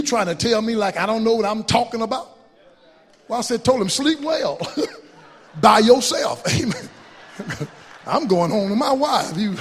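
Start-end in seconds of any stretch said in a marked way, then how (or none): 3.9-6.4 laughing taunt. Retold or imitated. Laughing punchline to young man.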